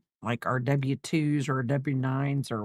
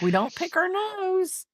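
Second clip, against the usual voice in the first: higher and slow, like a patient parent correcting; teaching a toddler; slower than usual. Retold or imitated. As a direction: gently scold the little one. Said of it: "And I'm like".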